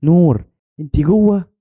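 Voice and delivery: calling out. A narrator's reading. Girl calls to friend behind tomb door, calling out. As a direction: call through a closed door to a friend. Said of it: "ناديت".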